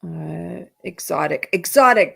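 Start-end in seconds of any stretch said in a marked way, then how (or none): 1.5-2.1 loud, higher burst of recognition; sudden recognition. Real, not acted. Reading a viewer's word that fits perfectly, excited. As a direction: seize on the word, punched out. Finds the word she wanted.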